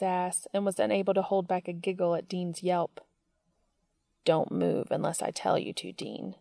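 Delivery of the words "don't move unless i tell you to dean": stern. Acted. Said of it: "he said sternly".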